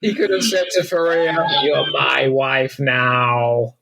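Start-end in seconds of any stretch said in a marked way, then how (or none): 1.6-3.8 very slow, drawn-out villain line; imitated villain. Imagining what he said to Faria, in a drawling villain voice. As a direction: stretch every word in a hammed-up character voice. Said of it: "you make him sound".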